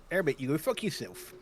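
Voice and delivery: put-on rough rural English accent; West Country accent. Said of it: "where is the West Country accent?".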